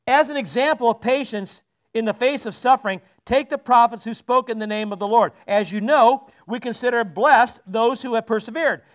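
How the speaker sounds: steady, measured Bible reading; scripture reading. Acted. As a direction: read the passage to the church, deliberate. Reads scripture aloud.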